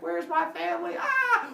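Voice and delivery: high shout climbing into a loud scream; hammed-up frantic battle yell; freaking out. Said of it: "And Heracles freaks out".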